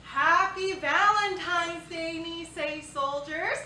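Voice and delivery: bright drawn-out hello, slow; cheery greeting. Acted. Girl greeting the soldiers brightly, slow and sing-song.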